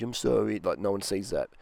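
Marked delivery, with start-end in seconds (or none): 0.0-0.6 a mumbled, half-hearted sorry; grudging private sorry. Retold or imitated. A man texting a grudging apology, muttered half-heartedly. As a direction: toss off a sorry nobody will see. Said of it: "a little pissy email or f-, text message".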